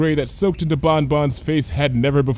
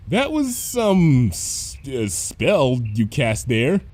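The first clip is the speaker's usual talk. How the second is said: awkward; 2 semitones higher, much slower than usual. Acted. Cheerilee awkward, edging away.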